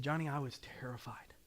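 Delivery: hushed whispered admission; confession. Retold or imitated. Colonel confessing his fear to a friend, whisper. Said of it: "And he said".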